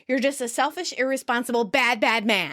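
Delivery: mildly hammed-up telling-off; mock scolding. Woman berates absent father, mock scolding. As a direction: scold him, landing each insult. Phoebe scolds Frank in retold scene.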